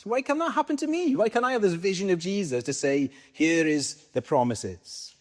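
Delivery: high, pleading why-not-me whine; a longing, wistful complaint; plaintive complaint. Retold or imitated. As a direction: ask it like a hurt, jealous believer. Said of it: "you might think".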